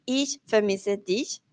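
"ich vermisse dich" said slowly in German; "ich vermisse dich" despacio, en alemán; careful German. Shown as a demonstration. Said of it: "Porque en alemán". (alemán lento y cuidadoso)

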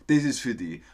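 Viennese dialect version; Viennese, with "die" for "dich"; Austrian dialect. Shown as a demonstration. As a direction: say it in broad Austrian. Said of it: "das ist der österreichische Dialekt".

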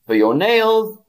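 "nails" punched high and loud; stress on nails. Shown as a demonstration. Teacher stressing "nails" to the chat, high and loud. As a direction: hit "nails" hard. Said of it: "teacher emphasis".

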